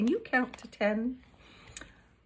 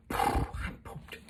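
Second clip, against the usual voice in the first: sighing, then a whispered I'm pooped; an exhausted whispered groan; 3 dB quieter than usual. Shown as a demonstration. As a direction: sag out the words, spent. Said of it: "stick your tongue out and go".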